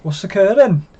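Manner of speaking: mock Welsh Gavin and Stacey catchphrase; Welsh accent. Co-host answers the Welsh accent dare with a hammed-up Welsh catchphrase. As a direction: play it up in a cheeky Welsh accent. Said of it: "if you think you can do a Welsh accent".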